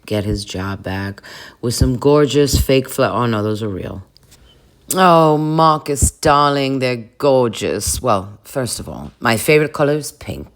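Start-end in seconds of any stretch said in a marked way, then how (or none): 4.9-10.5 gushing darling voice. Acted. Boss receiving flowers from Marcus, affected gushing. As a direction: coo grandly, stretching the first words.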